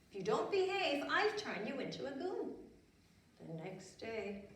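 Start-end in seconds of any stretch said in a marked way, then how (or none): 0.1-2.6 fairy voice. Acted. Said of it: "and she said".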